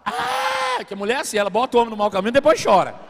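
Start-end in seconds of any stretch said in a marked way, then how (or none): 0.0-0.8 a short, much higher imitated cry of a little girl; mock wail. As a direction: yelp like a child bursting into tears. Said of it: "ela começou a chorar".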